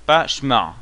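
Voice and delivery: shmar with no vowel after sh; wrong pronunciation. Shown as a demonstration. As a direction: run sh straight into m in "shmar". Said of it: "on entend un petit eh".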